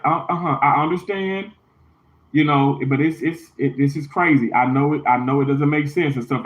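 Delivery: calm. Retold or imitated. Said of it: "Amy actually handled that very calmly".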